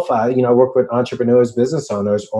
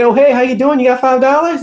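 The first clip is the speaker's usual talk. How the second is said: much higher, louder mock friendly caller; hammed-up fake cheer, pitched way up; mooching caller; 13 semitones higher, 5 dB louder than usual. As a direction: play the buddy who only calls for cash. Quoting people asking for money.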